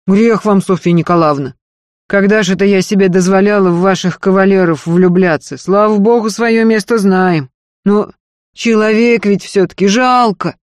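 earnest servant woman begging, high and loud; Marfa's pleading voice. Acted. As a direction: beg her mistress not to leave, pressing hard. Marfa offended, protests.

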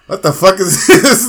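loud, slow, laughing disbelief. Retold or imitated. Watching the jab knockout, a laughing stunned shout. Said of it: "I was like".

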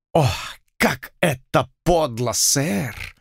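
slow, strained through the teeth; through gritted teeth. A narrator's reading. Lord reproaches Blood, slow words through teeth. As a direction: grind out the words slowly. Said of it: "сквозь зубы процедил".

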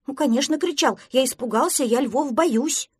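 flustered defensiveness. Acted. Prostodursen admits fear of lions, flustered. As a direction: defend yourself, still rattled.

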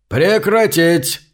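policeman's booming order. Acted. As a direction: stop the crowd with a drawn-out bellow. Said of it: "зычный голос полисмена".

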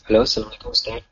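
cutting-out phone line; faint voice dropping in and out; breaking up space radio. Real, not acted. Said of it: "suaranya terputus".

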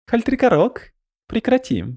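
high, stern nurse's order; firm command. Acted. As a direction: stop him firmly. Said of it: "велела Канерва". (строгий приказ)

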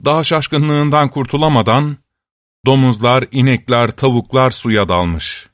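plain reading voice

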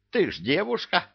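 shocked squeak. Acted. Бывалый в шоке.

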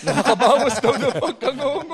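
laughing. Real, not acted. Joking about braces, laughing.

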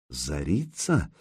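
low, slow and soft, half to himself; mumbled. Acted. Prince murmurs a half-familiar name, muttering slowly. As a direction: mutter the name as if trying to recall it. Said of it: "пробормотал княжич".

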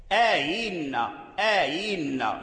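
slow آينا with the hamza softened toward ya; آينا drawn out, hamza half-ya; eased hamza. Shown as a demonstration. Teacher models tashil in آينا. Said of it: "هذا هو التسهيل".

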